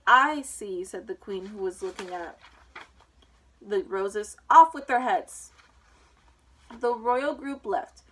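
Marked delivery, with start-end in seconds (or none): 0.1-0.8 much louder, imperious remark; loud interruption. A narrator's reading. Queen cutting off the gardeners' excuse, loud. 4.5-5.5 very loud, slow command; shouted sentence. A narrator's reading. Queen condemning the gardeners, shouted.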